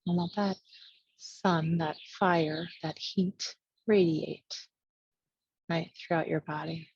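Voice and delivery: phrase by phrase, with long pauses; spacious, measured yoga-teacher guidance; guided meditation. Real, not acted. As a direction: lead a visualization, letting each image settle. Leads a meditation.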